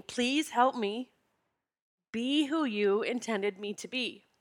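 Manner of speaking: pleading prayer. Retold or imitated. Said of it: "calling out to God, saying".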